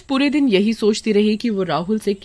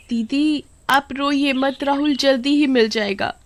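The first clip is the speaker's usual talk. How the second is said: fake sympathy; 7 semitones higher than usual. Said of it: "दिखावा कर रही थी".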